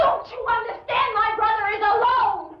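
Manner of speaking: desperate protest. Acted. Arguing her brother is alive.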